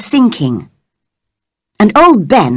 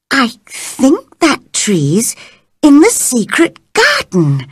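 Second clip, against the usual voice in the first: put-on girl voice; 5 semitones higher, slower than usual. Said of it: "she told herself".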